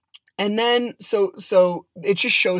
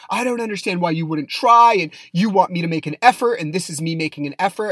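retold yelling; 5 dB louder than usual. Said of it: "she's screaming her head off at me".

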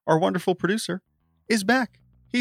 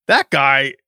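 lightly voiced boss, slow and higher; mock owner musing; 4 semitones higher, 4 dB louder, slower than usual. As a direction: play the lazy owner just noticing a good player. Imagined White Sox owner musing.

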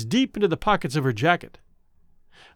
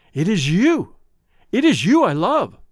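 louder and higher, overjoyed; exultant; 4 semitones higher, 5 dB louder than usual. A narrator's reading. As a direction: burst out with the joyful confession. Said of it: "he said exultantly".

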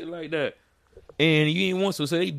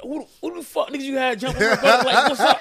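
higher, fast, mock furious shout; retold angry shout; 11 semitones higher, 5 dB louder, faster than usual. Retelling charging at the door, fast mock yell. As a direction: storm in demanding answers. Retelling confronting the wife's neighbors.

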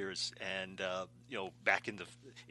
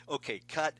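director's voice; 5 semitones higher, 5 dB louder than usual. Retold or imitated. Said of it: "they didn't say".

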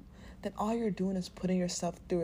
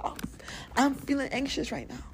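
demo of saying it; 5 semitones higher than usual. Shown as a demonstration. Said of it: "Scream it to the fucking window".

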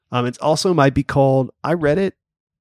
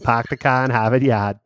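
put-on Boston accent. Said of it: "those are good".

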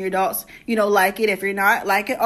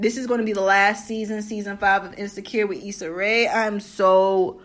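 sad voice. Pretend. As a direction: play up the sadness, half-joking. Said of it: "in my sad voice".

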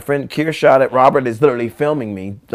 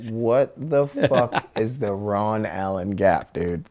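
slow, spaced-out, softer puzzlement; baffled disbelief; 5 dB quieter, much slower than usual. Retold or imitated. Skater answers friend about an unknown gap, baffled disbelief. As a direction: draw out each word, baffled.

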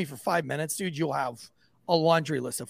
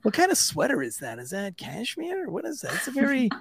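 mock flattery; 5 semitones higher than usual. Flattering the counselor, feigned interest.

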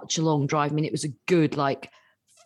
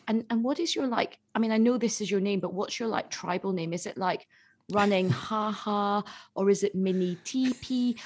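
softer, lightly voiced, curious; imitating earnest student; 4 semitones higher, 4 dB quieter than usual. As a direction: ask it in innocent earnest. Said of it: "she was like".

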